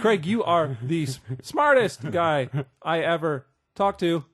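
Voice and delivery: slow robot voice; stiff, mechanical robot delivery. Pretend. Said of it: "I talk like a robot in my cuts".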